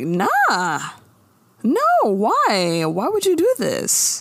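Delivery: high, alarmed mock pleading; imitating the girls. Friends begging Maya not to confess, in a high mock alarm. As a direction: play the horrified friends, pitch up. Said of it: "the girls are like".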